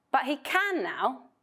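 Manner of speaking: can hit in contrast; stress on can. Shown as a demonstration. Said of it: "emphasize disagreement".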